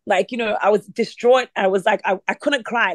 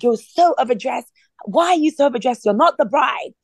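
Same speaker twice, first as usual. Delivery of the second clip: higher-pitched mock indignation; upset husband; 5 semitones higher than usual. Husband scolding overdressed wife, mock upset. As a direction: imitate an upset husband's mounting complaint. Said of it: "he got really upset about it".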